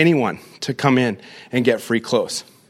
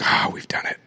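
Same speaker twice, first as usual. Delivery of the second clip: a breathy whispered self-satisfied sigh; mock the comfortable we-made-it feeling; smug complacency; 7 dB quieter than usual. Pastor mocking a church that rests on success, whispered smugly.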